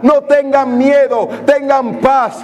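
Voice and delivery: predica con fervor y énfasis, un poco más alto; predicación ferviente. Acted. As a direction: anima a la congregación con energía. Predica con fuerza creciente. (prédica animando a la iglesia a no temer, con fervor)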